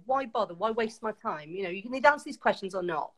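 retold no-nonsense telling-off; recounting a no-messing Welsh confrontation; full Welsh, no messing. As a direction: replay giving him a firm talking-to. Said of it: "I just went full, you know, Welsh, you know, no messing with him".

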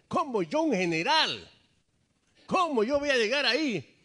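acted outrage, rising to loud, high protest; indignant general. General objecting to washing in a dirty river, indignant. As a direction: play a proud man balking at an order.

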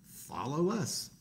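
welcoming the rabbit along; friendly Bear. Acted. Bear invites.

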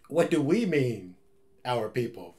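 a playful twist on the famous line; mock offended echo. Vlogger riffs on the movie line, mock offended. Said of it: "What do you mean, you people?".

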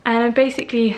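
out of breath from the stairs; panting a little between words. Real, not acted. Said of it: "sorry, I'm out of breath".

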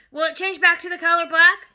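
loud, high worried question; anxious. Acted. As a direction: ask it desperate for reassurance. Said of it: "the father said anxiously".

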